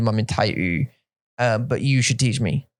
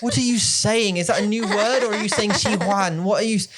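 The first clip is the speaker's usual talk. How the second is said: high, incredulous what are you saying; mock confusion; 6 semitones higher than usual. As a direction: play-act baffled listener. Teasing confusion at word.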